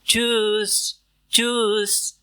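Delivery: चूस high with rounded ü; drill Tschüss. Shown as a demonstration. Teacher drilling चूस, high and rounded. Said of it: "Repeat after me".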